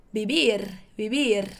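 vivir with a light, soft B for each v; soft B sound. Shown as a demonstration. Teacher shows the soft B to students, gently. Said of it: "leve sonzinho suave de B".

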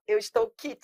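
"Eu estou kit" said as a mocked mistake; mocking the error. Teacher mimicking people who misuse kit, mild scorn. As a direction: hold up the wrong phrase with mild scorn. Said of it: "quando a pessoa fala assim".

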